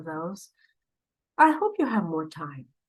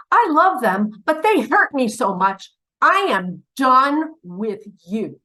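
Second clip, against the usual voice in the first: louder, higher, hurt outburst; hurt and fed up; 3 semitones higher, 5 dB louder than usual. Acted. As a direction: cut them off for good, wounded. Acted hurt person cutting someone off.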